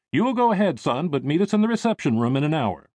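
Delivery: slightly lifted, fatherly send-off; lightly voiced father. Father letting his son go explore, lightly indulgent. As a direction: send the boy off with an instruction.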